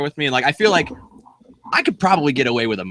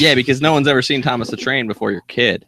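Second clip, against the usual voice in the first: mock-agreeing dig at a proud parent; lightly sarcastic jab between friends. Real, not acted. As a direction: tease them with dry sarcasm. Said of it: "Was that sarcasm?".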